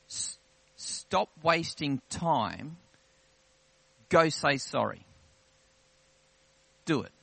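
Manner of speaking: slow, emphatic orders with long pauses; weighty divine command. Retold or imitated. Preacher quoting the impression from God in prayer, weighty command. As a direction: deliver each command with measured weight. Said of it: "There's a weight that comes with God's words".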